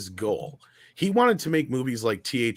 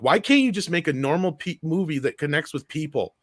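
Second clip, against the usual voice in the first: mild mock exasperation, pitched up; retold rage; 3 semitones higher than usual. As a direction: imitate someone demanding an answer in a fit of rage. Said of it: "in a fit of rage".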